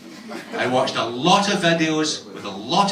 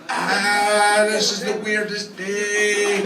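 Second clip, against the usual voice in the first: mock bewilderment; 4 semitones higher, much slower than usual. Acted bewildered reaction to his date.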